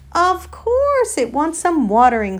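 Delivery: high, loud elephant declaration; emphatic exclamation. Acted. Elephant telling the donkey it needs water, emphatic. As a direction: exclaim it as obvious, pitch leaping up.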